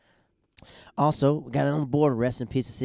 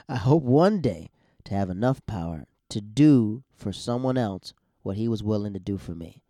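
slow, deliberate and a bit louder; 4 dB louder than usual. Real, not acted. Comic correcting a stumble, repeating slowly and deliberately. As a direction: take it slower this time. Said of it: "let me slow down".

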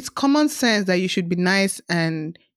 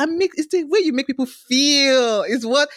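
usual speaking voice

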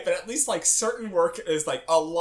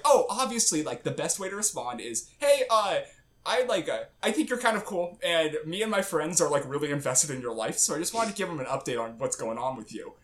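sarcastic. Retold or imitated. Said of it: "being sarcastic".

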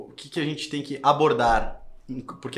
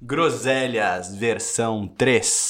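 drawn-out title announcement; show intro; 3 semitones lower, 4 dB louder, much slower than usual. Real, not acted. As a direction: announce the show, stretching each word. Announces the show's recorded intro.

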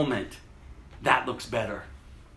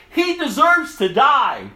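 condemning; 10 semitones higher, 7 dB louder, slower than usual. Acted. Council condemning Jesus.

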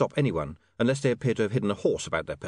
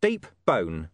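Deep Bone; 3 semitones lower than usual. Acted. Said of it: "You can call me".

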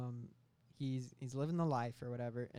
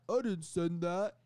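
a touch of pleading, slow and loud; protesting employee; 4 semitones higher, 8 dB louder, slower than usual. Acted. Employee denying the email to his boss, lightly acted protest. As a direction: deny it slowly and loudly, play-acting. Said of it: "He's like".

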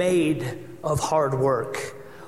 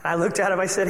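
usual speaking voice

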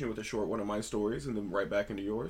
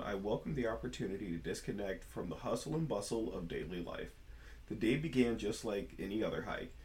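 storytelling voice. Shown as a demonstration. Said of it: "storytelling voice for realsies this time".

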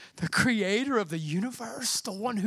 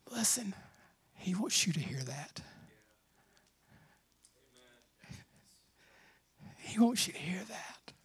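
breathy whisper, much softer and lower; intimate whisper; 6 semitones lower, 12 dB quieter than usual. Real, not acted. Preacher whispering to the congregation that God wants them to hear it.

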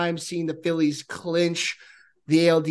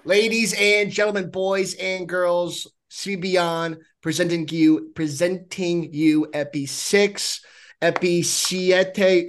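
ringmaster; slower than usual. Pretend. Podcast intro announcer style.

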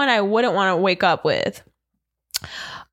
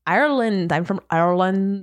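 attempted Irish accent; 3 semitones lower than usual.

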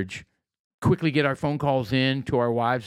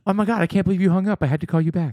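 rapid, higher mock indignation; fast mock outrage; 6 semitones higher, 3 dB louder, faster than usual. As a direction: gush it fast in fake outrage. Playing upset lover.

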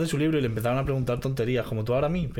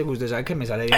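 easy Medellín paisa lilt; demonstrating a paisa accent; 4 semitones lower than usual. Shown as a demonstration. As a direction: put on a Colombian paisa accent. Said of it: "te puedo hacer el acento parse".

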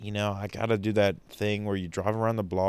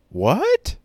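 much higher, loud, shrieking What? Sell?; shocked disbelief; 13 semitones higher, 7 dB louder than usual. Retold or imitated. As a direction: panic at hearing the company is sold. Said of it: "you go".

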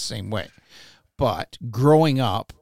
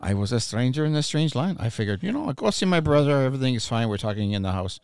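put-on French accent; 4 semitones lower, faster than usual. Bewildered friend recounting his Quebec visit, in a bad French accent. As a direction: tell it in a comic, horrible French accent. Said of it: "I love his French accent".

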